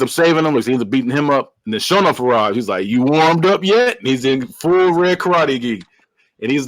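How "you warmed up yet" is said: slow, drawn-out taunting challenge; retold taunt. Retold villain's taunt in movie scene.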